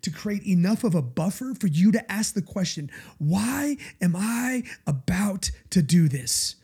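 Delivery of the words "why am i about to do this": whisper. Pretend. Inner question before giving in.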